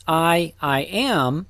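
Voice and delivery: slow, deliberate "I, I am" with the "I" repeated for emphasis; measured emphasis on the repeated "I"; emphatic doubled I. Shown as a demonstration. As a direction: set out "I, I" slowly, then "am". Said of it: "That construction is emphatic".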